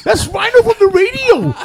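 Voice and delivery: 한 번 더 높고 크게 외치는 목소리; 총격을 막으려고 소리치는 친구; high shout. Retold or imitated. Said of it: "the guy goes".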